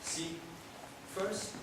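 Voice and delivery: rhythmic recital with shifting pitch and volume; spoken-word poem. Acted. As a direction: perform it as a story in verse.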